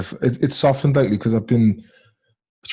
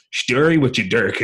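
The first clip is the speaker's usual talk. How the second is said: imitated Long Island lads attempting Irish; Long Island take on west of Ireland slang; Long Island fans' Irish accent. Fans greet him online, imitated Long Island go at Irish accent. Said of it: "these lads from Long Island".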